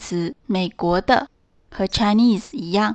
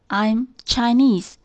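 slow model sentence; slower than usual. Shown as a demonstration. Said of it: "我们今天学的句型".

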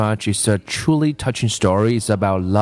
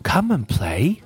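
whispered; 6 semitones higher, slower than usual. A narrator's reading. Tree inviting the boy to play, half whispered. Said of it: "she whispered".

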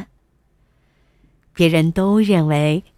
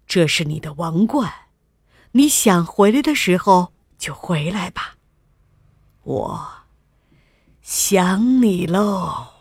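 tender king. A narrator's reading. King lovingly lets his daughter stay.

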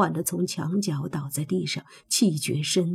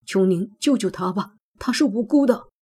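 pleading; 3 semitones higher than usual. Acted. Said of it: "跪在地上央求".

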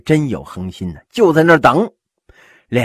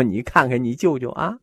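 mock whining complaint; 10 semitones higher, 5 dB louder than usual. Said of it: "哭诉".

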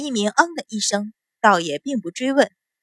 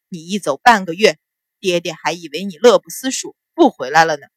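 low, lightly voiced father; father mock-scolding his daughter; 4 semitones lower than usual. Father to his daughter back from half a month away, mock-scolding. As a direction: drop the pitch for a chiding father.

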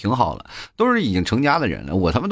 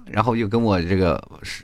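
usual speaking voice

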